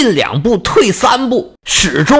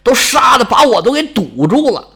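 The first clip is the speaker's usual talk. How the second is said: river god calling out; 4 semitones higher than usual. Acted. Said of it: "大声呼喊说".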